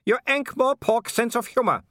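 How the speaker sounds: very high, scornful villain voice; scoff, pitched right up; scoffing werewolf villain. Acted. Werewolf scoffing at the watchman's humour, high and scornful.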